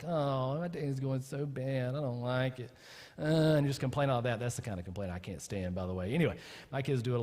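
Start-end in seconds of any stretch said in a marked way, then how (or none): 0.0-2.7 whiny petty prayer. Retold or imitated. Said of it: "whining these petty prayers".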